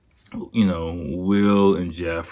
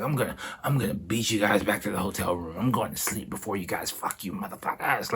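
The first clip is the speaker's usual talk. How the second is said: mock drunken taunt; 6 dB quieter than usual. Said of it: "yelling at the top of my lungs".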